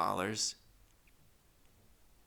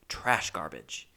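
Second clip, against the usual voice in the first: much lower and slow, dragging it out; low emphatic; 7 semitones lower, 3 dB quieter, slower than usual. Retold or imitated. Comic restating his early LA years as low, slow disgust. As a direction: let the words sink down heavily. Repeats phrase reversed, lower and slower.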